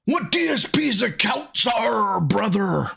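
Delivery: hammy promo with brother tag; wrestling promo voice. Acted. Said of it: "wrestling promo".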